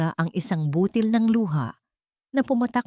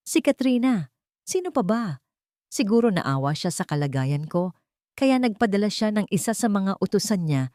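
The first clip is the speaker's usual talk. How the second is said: bitter mockery; 3 semitones higher than usual. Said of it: "may bahid ng pangungutya".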